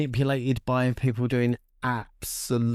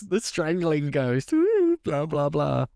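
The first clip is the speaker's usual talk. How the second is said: mocking spooky voice; 4 semitones higher than usual. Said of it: "Fernando says".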